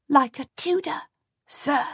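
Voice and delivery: put-on a small boy proudly echoing his uncle; little boy. A narrator's reading. Henry answering his uncle solemnly, childlike high voice.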